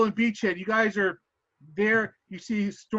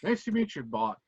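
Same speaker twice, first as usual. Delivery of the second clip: put-on Scottish accent; 4 semitones lower, 4 dB quieter than usual. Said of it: "The accent going again".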